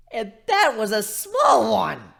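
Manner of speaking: loud, high and slow, delighted with himself; merry call. Acted. Griffin calling proudly from the blasted hole, merry. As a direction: call it out merrily from the wreckage. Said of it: "he called far too merrily".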